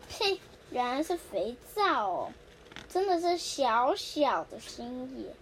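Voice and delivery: slow, dry sarcasm; sarcastic. Acted. Nobita sneering at the soap gift, slow and sarcastic. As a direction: drag it out with mock scorn. 呸，原来是肥皂哦.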